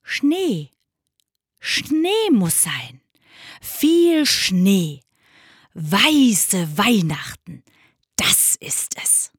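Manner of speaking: slow, savoring polar bear; slow animal character, fading to a whisper. Acted. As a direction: stretch each word out like a dreamy bear. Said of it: "Der Eisbär sprach".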